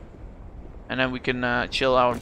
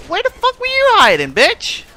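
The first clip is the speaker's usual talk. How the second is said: high furious shout at an enemy; angry yell; 7 dB louder than usual. Real, not acted. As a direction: scream it at the hiding player. Gamer yells at enemy.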